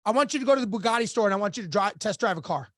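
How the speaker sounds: quick, matter-of-fact retold order; brisk instruction. Coach sets his client a task, brisk and matter-of-fact. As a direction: rattle off the instruction quickly, dropping at the end.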